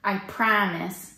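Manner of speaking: slow drawn-out Midwest "promise"; Midwest accent. Retold or imitated. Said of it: "that's the Midwest accent right there".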